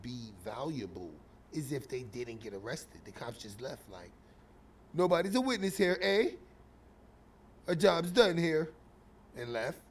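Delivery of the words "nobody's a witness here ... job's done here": hammed-up poor Canadian accent; bad Canadian accent. Cops leaving with no witness, bad Canadian accent. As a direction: try a clumsy Canadian accent. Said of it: "My Canadian accent sucks".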